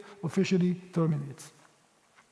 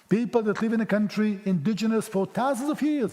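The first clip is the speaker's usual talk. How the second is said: sarcastic. Pretend. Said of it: "Yes, I'm being sarcastic".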